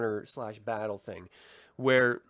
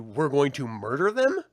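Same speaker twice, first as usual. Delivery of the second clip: louder, rising into a disbelieving question; incredulous mock quote; 5 dB louder than usual. Recapping attackers' sudden escalation, mock-quoting in disbelief. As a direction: quote the threat as if it were absurd.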